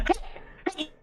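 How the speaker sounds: high-pitched elf shout; elves calling out. Acted. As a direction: pipe up like a little elf guard. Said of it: "you hear four of 'em go".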